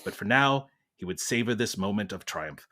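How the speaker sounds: measured British narrator; British accent. Acted. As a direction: Masterpiece Theatre host reading. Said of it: "We're going British".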